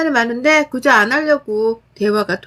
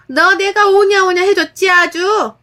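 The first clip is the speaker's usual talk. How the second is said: slow indignant scolding; 8 semitones higher, 4 dB louder than usual. Acted. Mother-in-law scolds.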